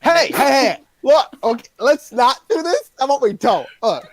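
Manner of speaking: high, urgent hey hey hey; alarmed pleading. Acted. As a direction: stop them before they strike. Pleading to stop execution.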